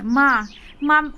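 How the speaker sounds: slow, drawn-out cry to mother; relieved calling out. A narrator's reading. Daughter sees her mother has come back, drawn-out relieved call. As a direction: call out in mild storybook relief.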